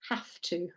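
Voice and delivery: "have to" as "haf tuh"; soft, low "have to" with an F in have; connected speech. Shown as a demonstration. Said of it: "turns to have".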